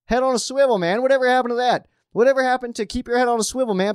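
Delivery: high, loud, heated rant; fired-up rant about flagged hits; worked up. Real, not acted. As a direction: vent the frustration. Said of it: "I got a little worked up there".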